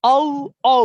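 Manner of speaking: ও, ও as two separate letter names; letters said singly. Shown as a demonstration. Teacher showing double O letter by letter, separate punched ও. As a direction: punch each ও with a gap between. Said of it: "অথবা বলবে double ও".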